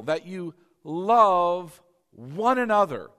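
slow emphatic preaching. Real, not acted. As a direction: hammer the verse home. Preacher stresses key verse.

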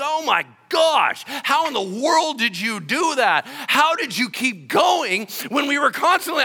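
loud, high astonished cry; amazed shout. Retold or imitated. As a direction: gasp it out in disbelief. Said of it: "They're like".

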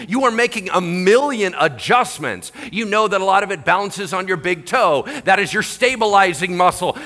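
high, loud, incredulous preaching; impassioned preaching. Real, not acted. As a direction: drive each question home to the congregation. Preaches at full force.

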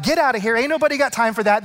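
brisk, mildly confrontational mock rebuke; acted rebuke. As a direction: shoo them off in a quick acted scolding. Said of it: "That kind of rebuke".

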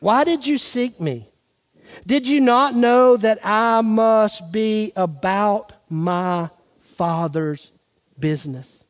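lightly voiced, measured answer that slows down; slow, deliberate scripture quote with spaced final words; Jesus. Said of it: "But look at Jesus' answer".

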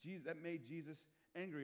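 usual speaking voice

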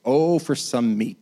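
slow, longing mock exclaim. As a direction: sigh for meat with hammed-up longing. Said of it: "they exclaimed".

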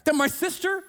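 loud, high, exasperated pleading; loud complaint. Acted. Martha complaining to Jesus about her sister, exasperated. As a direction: pile on the grievance. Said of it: "She says".

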